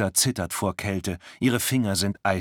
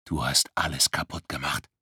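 cold accusation; 4 semitones lower than usual. Acted. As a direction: accuse her coldly and low. Icy stranger accuses Luisa.

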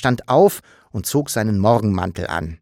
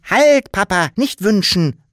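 higher, louder urgent stop; urgent call; 10 semitones higher, 6 dB louder than usual. Acted. Sams stops Papa from wishing, urgent cry. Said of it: "rief das Sams".

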